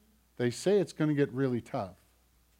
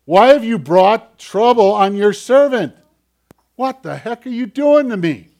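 mild exasperation; 8 semitones higher, 12 dB louder than usual. Retold or imitated. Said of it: "Moses goes forward and he asks".

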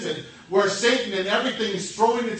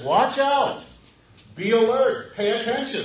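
loud, higher alarm call; warning call; 3 semitones higher, 5 dB louder than usual. Retold or imitated. Jesus warning listeners about false prophets, loud urgent cry. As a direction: sound the alarm to the crowd. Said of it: "his challenge that says".

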